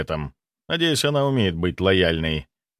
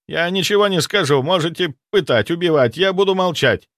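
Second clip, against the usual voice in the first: higher, louder defiant vow; defiant refusal; 7 semitones higher, 3 dB louder than usual. A narrator's reading. Zaitsev defiantly refusing to talk to the necromancer. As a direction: dare them to torture you.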